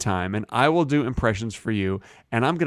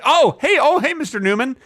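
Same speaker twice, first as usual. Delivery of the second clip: mock surprise; 9 semitones higher, 3 dB louder, faster than usual.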